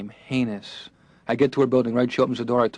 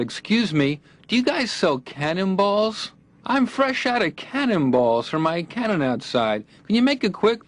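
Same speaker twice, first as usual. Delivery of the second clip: put-on old-timer; 8 semitones higher, slower than usual. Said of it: "I might as well have said".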